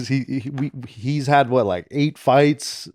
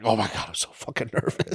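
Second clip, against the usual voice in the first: put-on nervous young coach; 4 semitones lower, 11 dB quieter than usual. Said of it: "I was like".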